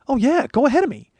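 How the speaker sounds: high-pitched, emphatic go-ahead; acted eager yes; eager consent.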